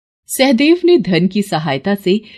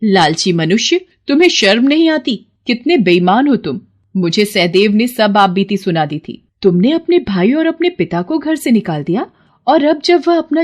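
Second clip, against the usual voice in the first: angry goddess. Acted. Goddess scolds greedy Vikram, stern and angry. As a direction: rebuke the greedy man.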